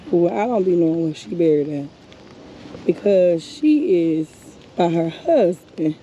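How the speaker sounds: slow, tearful voice at the grave; crying. Real, not acted. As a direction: speak through real tears, slowly. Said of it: "I'm over here crying like a baby".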